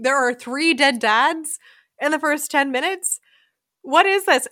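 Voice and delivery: baffled outburst, retelling a shocked reaction; incredulous. Retold or imitated. Texting a friend ten minutes into the film, incredulous.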